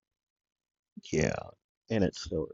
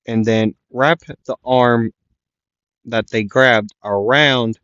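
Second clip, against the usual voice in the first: excited; 7 dB louder than usual. Real, not acted. Excited fight retelling.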